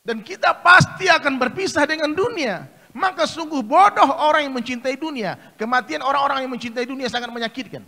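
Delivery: loud, high sermon warning; forceful preaching. Acted. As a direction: drive the warning home.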